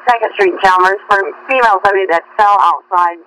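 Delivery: fast dispatch page; urgent firefighter radio. Real, not acted. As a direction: rattle off the call like a dispatcher. Dispatcher paging an ambulance call.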